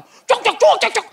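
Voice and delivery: high, loud mock train chatter; noisy Medan Chinese chatter. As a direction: imitate a talker heard carriages away. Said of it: "Chinese Medan itu kalau di kereta api itu". (menirukan obrolan Tionghoa Medan, keras)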